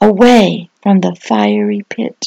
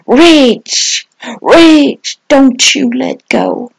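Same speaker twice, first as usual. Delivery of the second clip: rescuer calling out; 3 semitones higher, slower than usual. Acted. Voice of hope calling to a falling person, urgent plea. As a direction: cry out to someone slipping away. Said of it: "and a voice says to you".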